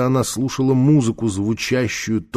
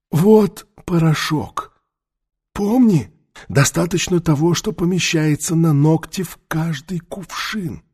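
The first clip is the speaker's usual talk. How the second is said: медленно, выше, наставительно; терпеливо втолковывать, как старый наставник; голос старого мага; 7 semitones higher, slower than usual. A narrator's reading. Таита's instructions. (медленный голос старца-мага)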